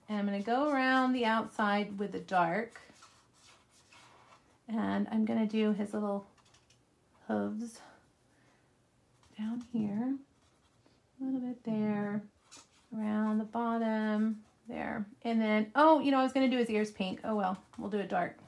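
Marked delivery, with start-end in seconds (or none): 5.7-13.5 soft whisper on one word; whispered aside while coloring. Real, not acted. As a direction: breathe the word out. Coloring the donkey's hooves.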